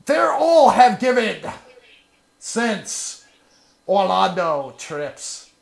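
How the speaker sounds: hammed-up grand lament; milk every word dramatically; dramatic reading. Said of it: "con guy being all dramatic".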